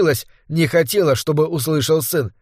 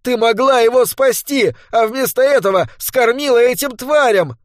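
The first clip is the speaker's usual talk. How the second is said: angry accusation; 8 semitones higher than usual. A narrator's reading. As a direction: hurl the blame at her. Son accuses mother.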